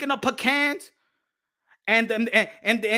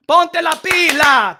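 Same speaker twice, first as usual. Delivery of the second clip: slow, hammered-out order; slow emphatic command; 2 semitones higher, 7 dB louder, much slower than usual. Real, not acted. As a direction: spell each word out like a stern command. Telling people to get to work.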